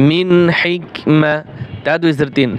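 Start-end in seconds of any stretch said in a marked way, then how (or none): 0.1-1.3 slow recitation. Shown as a demonstration. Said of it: "মিম জবর মা".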